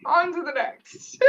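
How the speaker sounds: slow, laughing wrap-up. Real, not acted. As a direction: laugh it off and move on. Laughing, moving on.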